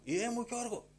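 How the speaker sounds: high-pitched retold prophetic cry; high, drawn-up call by name, retold; imitated calling out. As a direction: mimic a woman crying out in prophecy. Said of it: "άρχισε να φωνάζει".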